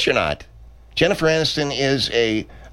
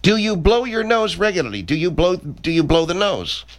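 incredulous grilling; 8 semitones higher than usual. Acted. Director grills the nose picker.

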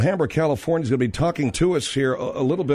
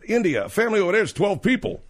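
quoting the bar guy; 7 semitones higher than usual. Retold or imitated. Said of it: "He said".

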